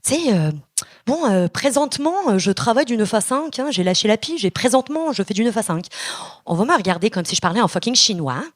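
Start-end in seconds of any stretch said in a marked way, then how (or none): 1.1-5.9 put-on accent from France; Quebec words said in a Parisian French accent. Comic talking to a Frenchman, put-on French accent. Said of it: "avec un accent français".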